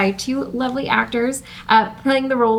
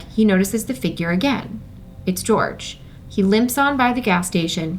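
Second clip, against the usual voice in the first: steady scene narration; calm screenplay narrator; script reading; 2 semitones lower than usual. A narrator's reading. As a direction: read the stage directions like a table read. Host narrates screenplay action lines.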